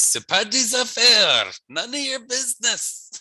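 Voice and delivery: high, loud sass fading to a whisper; mock sassy retort. Shown as a demonstration. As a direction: tease them playfully, end in a whisper. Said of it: "Or you can use".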